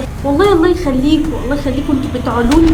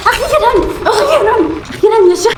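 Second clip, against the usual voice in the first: high, giggling relief; laughing relief; 8 semitones higher than usual. Real, not acted. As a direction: laugh it out, finally done. (فرحانة وبتضحك)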